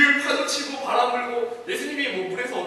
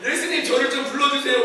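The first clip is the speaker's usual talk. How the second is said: giddy plea; 3 semitones higher, 4 dB louder than usual. Acted. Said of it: "약간 정신이 나가서".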